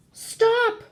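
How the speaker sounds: high, forceful shout; sharp high-pitched yell of protest; loud yell. A narrator's reading. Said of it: "Tia yelled very loudly".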